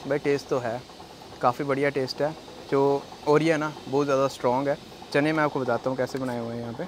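speaking between bites; talking while chewing. Real, not acted. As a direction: mouth full of food. Seen 0: Bite taken at -2.0; mouth stays closed and working while he talks.

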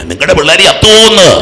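high, loud cry of warning; urgent shout. Real, not acted. Preacher warns parents about their children, urgent shout. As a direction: cry it out to the whole congregation.

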